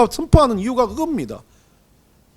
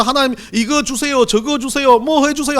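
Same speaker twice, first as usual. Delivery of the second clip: higher, louder begging list; pleading demands; 6 semitones higher, 5 dB louder than usual. Retold or imitated. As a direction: rattle off wants to God. Greedy believer asks God. (하나님께 조르듯 높고 크게 요구하는 기도)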